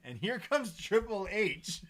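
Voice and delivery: high, loud, drawn-out entrance call; hyped announcement. Acted. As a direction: announce the big reveal like a ring announcer. Mock entrance call at the reveal.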